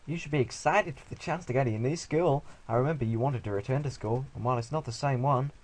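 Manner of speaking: lightly voiced dad; a hint of a put-on parent. Parent urging son about new school, lightly put-on voice.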